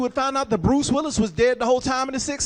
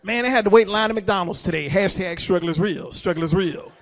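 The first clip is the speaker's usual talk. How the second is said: put-on whiny teen; 5 semitones lower, 4 dB louder than usual. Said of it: "people under twenty".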